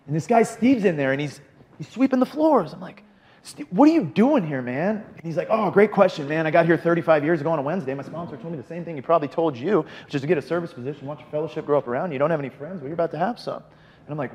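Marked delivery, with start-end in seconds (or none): 3.4-13.6 lightly voiced, upbeat higher-pitched old timer, a bit louder; a hint of a chipper veteran who has seen it all; cheery old timer Steve. Retelling Steve at the meeting, a lightly voiced cheery old timer.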